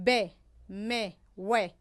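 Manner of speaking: isolated "ب، م، و", each formed on the lips; careful labial b, m, w in "ب، م، و"; lip sounds. Shown as a demonstration. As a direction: sound out "ب", "م" and a rounded "و" separately.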